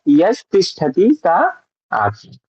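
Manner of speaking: यस तिष्ठति, slow, यस then तिष्ठति; slow split reading. Shown as a demonstration. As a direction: read यस straight, no ई on सा. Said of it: "तो यस पहले हो गया". (धीरे से यस, फिर तिष्ठति)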